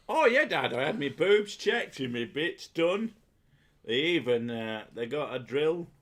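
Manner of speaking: high, loud cheery daughter voice; chatty daughter to dad. Pretend. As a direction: gush it to dad like a proud kid. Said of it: "tell all about your pap smear back to your dad".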